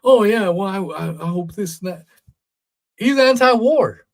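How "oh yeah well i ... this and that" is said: high, hammed-up hedging voice; mock waffling. Host mocking agenda-driven pundits, high hammed-up waffle. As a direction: stammer like a wishy-washy pundit. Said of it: "He's not like".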